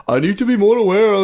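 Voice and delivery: mock Muslim congresswoman voice. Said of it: "it was just character acting".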